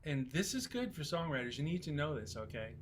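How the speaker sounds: Scottish producer. Retold or imitated. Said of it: "I'm not even gonna try to do his Scottish accent".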